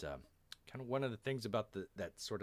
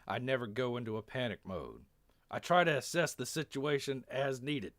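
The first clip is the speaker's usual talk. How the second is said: put-on weird, drawling-soldier Texan accent; earnest speech in a Texan accent; 3 semitones higher, 3 dB louder than usual. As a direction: put on an odd Texan accent, a bit raised. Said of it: "a weird Texan accent".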